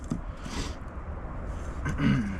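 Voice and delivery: sniffing from the cold; snuffly nose sniff; sniffling. Real, not acted. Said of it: "Sorry about my sniffling".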